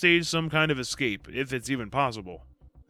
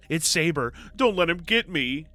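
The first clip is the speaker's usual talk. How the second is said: put-on raised, louder voice of a panicking boy; mock scream; 4 semitones higher, 4 dB louder than usual. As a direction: cry out in half-hearted panic. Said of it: "and he starts screaming".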